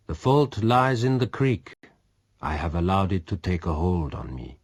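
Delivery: a hint of a daring pirate; lightly voiced resolute man. A narrator's reading. Pirate plans raid.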